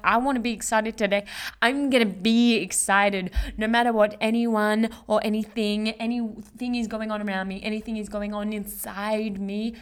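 excited affirmation. Shown as a demonstration. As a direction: declare it with energy. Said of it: "You're like".

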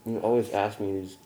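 talking through a mouthful; words round a bite of food; mouth full. Real, not acted. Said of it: "when my mouth is full".

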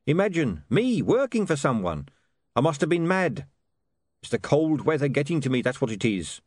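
mildly aghast salesman; Dibbler, dismayed. Acted. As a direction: bemoan your own lapse. Narrator voices Dibbler.

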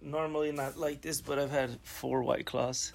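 soft, slightly tipsy talk; a little buzzed after a few drinks. Real, not acted. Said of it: "I'm a little tipsy".

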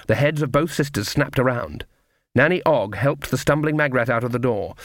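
ordinary delivery

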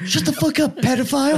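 high, laughing mock insult; cracking up while teasing. Real, not acted.

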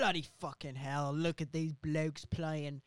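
Hugo Weaving impression. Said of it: "He's like".

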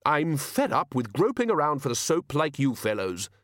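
shouted. Acted. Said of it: "shouted the Arch-Chancellor".

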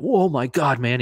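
mock astonishment, not shouted; retold freak-out. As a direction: imitate a buddy freaking out. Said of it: "and he freaked out".

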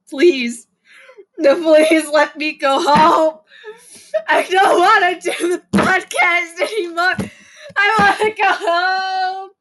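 hammed-up whiny plea to quit the podcast; mock pleading. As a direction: beg to go home like a dramatic child. Mock begging to go home.

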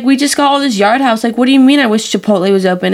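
exasperated retelling of a confused question; retold incredulity. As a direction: question your friend in disbelief. Retold baffled reaction to friend.

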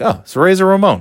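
bursting to name his hero; excited. Retold or imitated. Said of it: "I'm like".

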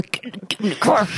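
squeezed, held-in mock anger; tight-lipped mom. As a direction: push it through tightened lips without yelling. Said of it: "tightening of the lips in front".

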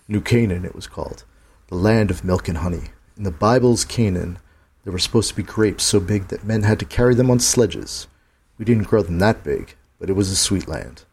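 put-on a lightly gravelled old gunman; gunslinger voice. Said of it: "I had to speak like the gunslinger".

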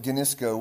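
ginisko said guh-NIS-ko; own pronunciation. Shown as a demonstration. Preacher gives his own pronunciation of the Greek, ginisko as guh-NIS-ko. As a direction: stress the middle syllable of ginisko. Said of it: "I pronounce it".

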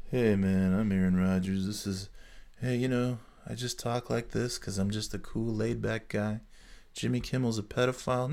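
soft, mumbled laid-back dude voice; lazy mushmouthed bro, barely moving the lips; mushmouth Rodgers impression. Mocking Aaron Rodgers as a mumbling laid-back guy. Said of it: "Aaron Rodgers is a fucking mushmouth moron".

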